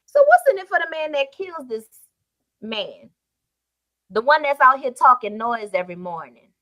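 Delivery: preacher retelling David's question with fire; David, restated boldly. Acted. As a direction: throw the question out with nerve. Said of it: "But David says".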